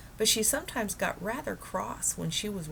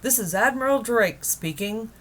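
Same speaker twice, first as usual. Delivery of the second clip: higher, louder radio announcer voice; Admiral Drake on the radio; 6 semitones higher, 7 dB louder than usual. Acted. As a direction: broadcast it from the South Pole. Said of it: "a faint voice floated out".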